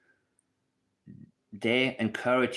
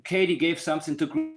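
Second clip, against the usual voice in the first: lightly mimicked know-it-all commenter, raised pitch; mocking commenters; 5 semitones higher than usual. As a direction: parody a silly online comment. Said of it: "I get the stupid comments".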